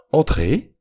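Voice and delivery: a bright, welcoming call through the door; cheerful and cordial. A narrator's reading. Dupin calling the visitor in, cheerful and cordial. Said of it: "d'une voix gaie et cordiale".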